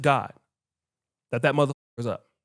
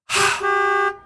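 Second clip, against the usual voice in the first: long, high honk held on one note; loud sustained beep, like leaning on a horn; imitated car horn; 4 dB louder than usual. Driver blowing at the gate for the sleeping guard, long high honk.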